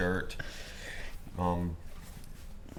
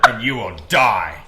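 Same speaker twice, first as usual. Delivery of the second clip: louder mock-judge verdict; Discord moderator voice; 6 dB louder than usual. Mock judge condemns the clown, Discord moderator voice. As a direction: hand down doom in a put-on moderator voice. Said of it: "do the Discord moderator voice".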